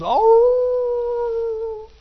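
long high drawn-out howl; preacher imitates the wolf hollering, howling. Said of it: "he's hollering".

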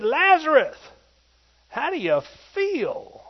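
high loud call, then slow question. Retold or imitated. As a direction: shout his name, then ask slowly. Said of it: "and Jesus said".

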